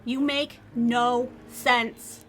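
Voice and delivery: slow, exasperated outburst with each word spaced out; exasperated yell. Acted. Woman yelling at the reaper who saved her, exasperated. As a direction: draw it out slowly, loud and frustrated. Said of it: "standing here yelling at nobody".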